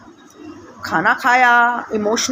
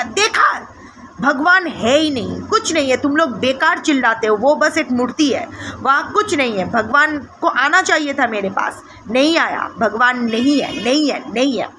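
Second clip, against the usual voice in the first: mildly raised, retold angry outburst; Prabhudas angry shout. Devotee telling the temple crowd God is absent, mild retold anger. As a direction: scold the temple crowd, only a touch heated. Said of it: "चिल्लाने लगा बहुत गुस्से में".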